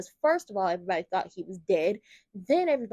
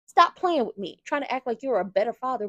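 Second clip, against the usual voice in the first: loud scolding; 3 semitones higher, 5 dB louder than usual. Acted. Fan yelling at Drew for his hypocrisy, loud. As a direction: snap at him to cut it out.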